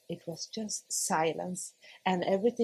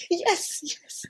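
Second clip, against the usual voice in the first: high insistent yes; 10 semitones higher than usual. Retold or imitated. Retold refusal to the midwife.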